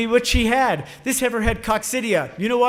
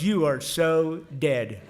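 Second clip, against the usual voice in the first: hushed warning; 7 semitones lower, 5 dB quieter, much slower than usual. Retold or imitated. Receptionist stunned at the mess.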